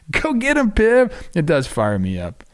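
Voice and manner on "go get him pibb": excited cheer. Real, not acted. Cheering the pitcher on.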